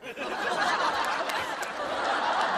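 a high burst of relieved laughter. Real, not acted. 丈夫放心大笑. (松了口气地高声笑)

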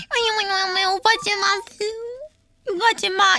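high, whiny little plea; mock pleading. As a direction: whimper at the haters in a put-on voice. Imitates herself pleading when insulted.

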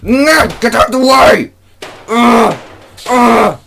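real gamer rage, shouted; frustrated shout. Real, not acted. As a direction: yell at the game as it fails. Hand knocks cup away.

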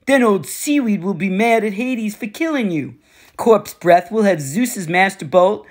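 lightly voiced cocky war god, taunting; a hint of a swaggering bully, amused; smug war god. Ares explains his plan.

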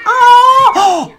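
high, loud squeal at the toddlers; delighted squeal. Real, not acted. Squealing as the toddlers hug on screen. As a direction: squeal with delight at something cute. Toddlers hugging, cute moment.

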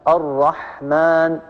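الرحمن very slow, final aa drawn out; lengthened vowel. Shown as a demonstration. Teacher giving students an example of madd, lengthened vowel. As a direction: stretch the alif before the noon in الرحمن. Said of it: "وقابلية التطويل وقابلية الزيادة".

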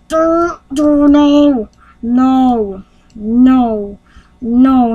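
hammed-up angry string of no's; mock mad. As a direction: bark out each no in pretend anger. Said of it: "he got mad".

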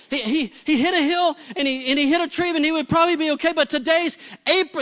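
David Griffin. Retold or imitated. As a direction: imitate a panicked, rushed repeat. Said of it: "I hear David say it again".

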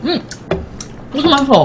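chewing while talking; speaking between bites; mouth full. Real, not acted. Seen 2: Woman ate spoonfuls just before; in profile, mouth still working while speaking.

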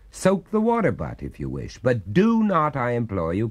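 lightly voiced exasperated householder; politely outraged, rising to a plea; indignant gentleman. Master scolds the water ghost.

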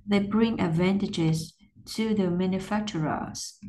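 careful practice reading in two pieces; chunked phrasing. Shown as a demonstration. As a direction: pause between "advantages" and "to". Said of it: "từ nối cắt chỗ này".

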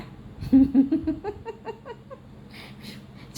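high rising laughter. Real, not acted. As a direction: laugh high at the cats' fuss. Mother laughing at the cats.

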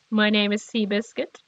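low, soft talking-horse voice; horse impression. Gamer doing a horse impression for viewers, lightly voiced horse. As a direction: lightly play a horse introducing itself. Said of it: "my latest impression of a horse".

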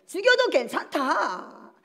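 slow, drawn-out resolve; acted defiant faith. Daniel accepting death for his faith, slow resolute declaration. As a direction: declare it slowly, unafraid of death. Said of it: "이 믿음이 있었어요".

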